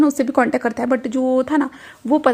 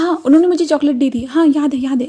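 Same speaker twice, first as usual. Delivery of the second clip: a hint of an eager child, a bit higher; light child voice, pitched up a little; lightly voiced little girl; 3 semitones higher, 3 dB louder than usual. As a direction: brighten up like a kid remembering chocolate. Narrator voices little Daisy.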